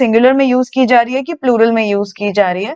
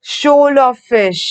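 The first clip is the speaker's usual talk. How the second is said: shoal of fish, each word slow and clear; slow teacher dictation; much slower than usual. Shown as a demonstration. Teacher dictating collective noun, very slow. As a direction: spell it out slowly for the class. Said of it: "collective noun में सीखा था".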